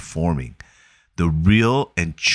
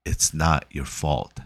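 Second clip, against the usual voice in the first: gentle reassurance; 2 semitones lower, 5 dB quieter than usual. Retold or imitated. Therapist gently comforting Will.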